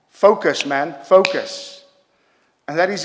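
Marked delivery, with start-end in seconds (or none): 0.1-1.8 mock boss shout. Supervisor telling worker to focus.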